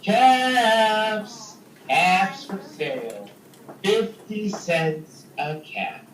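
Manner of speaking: a light street vendor's call; peddler calling out wares. Acted. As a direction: call out caps for sale. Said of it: "went back to town calling".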